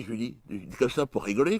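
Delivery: usual speaking voice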